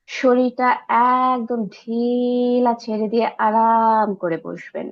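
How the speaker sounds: slow, drawn-out relaxation cue; guided meditation. Real, not acted. Guide telling listeners to let the body go, slow meditative voice. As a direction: stretch the words to loosen the body.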